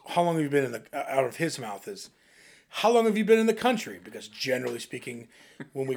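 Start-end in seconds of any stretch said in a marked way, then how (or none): 0.1-4.0 imitating dad's eager question. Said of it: "the first thing that comes out of".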